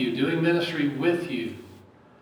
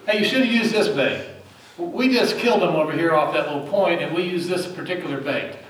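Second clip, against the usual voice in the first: loud, higher, eager bragging voice; know-it-all fisherman; 3 semitones higher, 4 dB louder than usual. Retold or imitated. Preacher voicing a boastful fisherman, loud and high. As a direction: call it out like a smug angler handing out tips.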